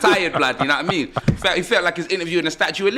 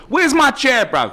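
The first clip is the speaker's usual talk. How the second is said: mock demand; 5 semitones higher, slower than usual. Mock demand for promised chair.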